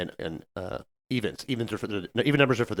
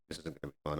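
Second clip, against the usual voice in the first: trainee muttering; 10 semitones lower, 18 dB quieter, faster than usual. Retold or imitated. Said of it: "He goes".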